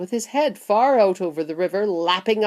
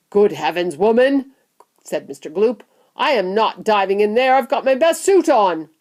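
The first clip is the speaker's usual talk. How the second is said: indignant; 3 semitones higher, 6 dB louder than usual. Acted. Father indignant refusal.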